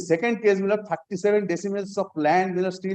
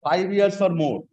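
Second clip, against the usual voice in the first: formal legal reading. Shown as a demonstration. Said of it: "Kindly, I am reading once more".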